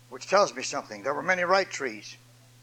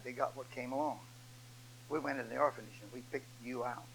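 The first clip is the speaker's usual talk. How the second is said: soft, low reassurance, lightly acted; gently voiced father; 5 semitones lower, 12 dB quieter than usual. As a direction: quietly comfort a hurt son, as a storytelling preacher. Father consoles adopted son in story.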